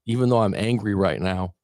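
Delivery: steady, calm setup statement; soothing EFT affirmation; tapping affirmation. Shown as a demonstration. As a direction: recite it gently to yourself. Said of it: "we'll tap out on".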